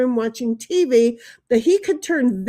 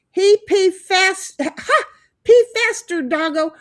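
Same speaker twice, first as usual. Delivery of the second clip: urging; 6 semitones higher, 3 dB louder than usual. Pretend. Reading chat as urging dog.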